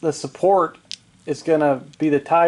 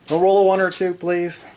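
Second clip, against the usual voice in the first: pleading; 4 semitones higher, 3 dB louder than usual. Real, not acted. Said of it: "I shouldn't have said that".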